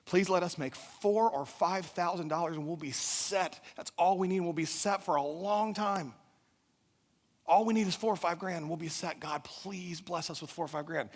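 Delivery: earnest acted plea to God; retold desperate praying; pleading prayer. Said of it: "We were praying to God".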